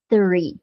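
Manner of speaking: "Three" with tongue between the teeth; a careful TH starting "Three". Shown as a demonstration. Teacher repeats the number for learners, careful TH. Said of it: "coloca a língua entre os dentes".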